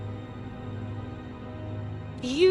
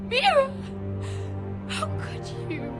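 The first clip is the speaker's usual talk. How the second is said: angry shout; 10 semitones higher than usual. Acted. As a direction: hurl the name in outrage. Betrayed, shouting at friend.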